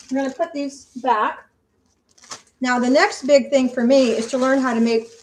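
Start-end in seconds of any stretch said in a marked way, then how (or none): 2.6-5.1 talking with mouth full; words around a bite of food. Real, not acted. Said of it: "I shouldn't talk with my mouth full".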